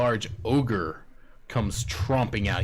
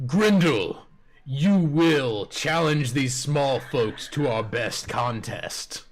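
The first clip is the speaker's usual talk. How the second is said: yelling; 3 semitones higher, slower than usual. Acted. Goblin chief orders the ogre to accept the challenge, yelling. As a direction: call the ogre out with authority. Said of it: "he yells out to the ogre".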